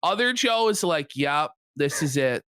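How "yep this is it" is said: low, resigned mock inner voice. Streamer voicing Other Joe watching his career end, resigned. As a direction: drop the pitch and accept doom.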